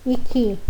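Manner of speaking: che said as que, with a hard k; que com k; Italian que. Shown as a demonstration. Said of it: "nós vamos pronunciar que".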